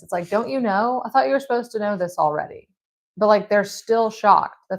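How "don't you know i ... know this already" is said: higher, fast, in disbelief; can't believe they don't know it; don't you know, said in disbelief; incredulous. Retold or imitated. Jesus' reply voiced, incredulous.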